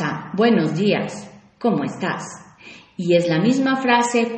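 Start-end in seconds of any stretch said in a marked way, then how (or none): 0.3-2.2 flat, dropping, softer hello; indifferent good morning; cold greeting. Shown as a demonstration. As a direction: greet with no interest. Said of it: "con un tono y intención diferente".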